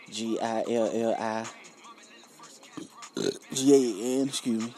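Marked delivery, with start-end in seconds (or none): 3.5-3.9 letters spoken through a burp. Real, not acted. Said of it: "Pardon me, that was gross".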